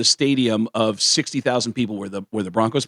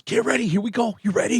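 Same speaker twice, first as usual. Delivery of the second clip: A drummer's voice; 10 semitones higher, faster than usual. Retold or imitated. The drummer readies the kid at the drum kit, high and coaxing. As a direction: coax the kid, pitched high. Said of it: "he goes".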